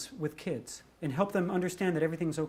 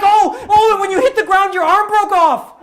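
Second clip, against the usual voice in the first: put-on much higher, louder, eager child's blurt; excited little girl; 12 semitones higher, 17 dB louder than usual. Little girl tells the comic his arm broke off, thrilled. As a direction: burst out like a kid who just figured it out.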